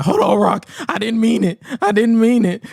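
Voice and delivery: mock pleading. Vince begging Rock in retold scene.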